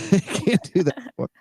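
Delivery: squeaky joking echo of the line; playful high-pitched mockery; high mock repeat.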